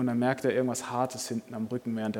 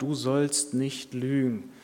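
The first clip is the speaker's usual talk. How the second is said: inner voice; much slower than usual. Acted. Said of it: "die Stimme kommt wieder und sagt".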